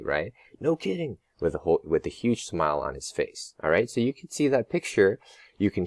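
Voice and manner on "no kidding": high hammed-up grandpa exclamation; roaring grandpa. Teacher voicing Papa's roar, mild hammed-up exclamation. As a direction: boom it out with a huge smile. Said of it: "He'd roar".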